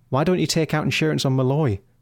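ordinary delivery

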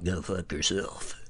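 clumsy, poorly done, mean radio DJ announcer voice. Reading out a listener's request, the host answers in a bad mean DJ voice. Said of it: "That was actually a bad Mean DJ voice".

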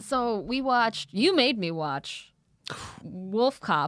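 slow, aggrieved, long-suffering, put-upon tone. Telling the other person they made them watch Wolf Cop, put-upon, like forced to watch. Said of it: "The way you said that sounded like everyone who was forced to watch".

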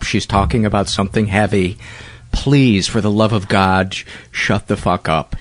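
plain

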